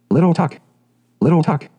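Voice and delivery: high call across to him. A narrator's reading. Sailor boy calling out to little Tuck, a high call. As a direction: call his name from afar. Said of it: "cried a voice".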